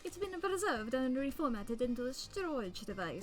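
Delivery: hammy exaggerated Italian accent; cartoonish Italian accent, grand and theatrical; over-the-top Italian accent. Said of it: "since I couldn't do an Italian accent".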